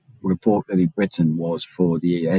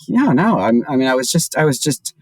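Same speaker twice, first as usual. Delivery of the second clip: put-on French accent; 5 semitones higher than usual. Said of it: "she was like".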